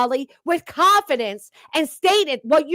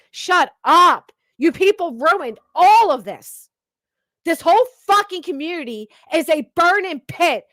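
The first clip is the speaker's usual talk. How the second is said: angry; 2 semitones higher than usual. Real, not acted. Ranting at the stream.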